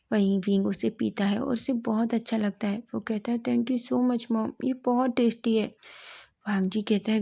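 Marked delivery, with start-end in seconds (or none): 3.4-5.8 slow, stretched grateful thanks; drawn-out thanks. Acted. Wing thanks his mother for the lemon water, slow. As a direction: savour each word of thanks slowly.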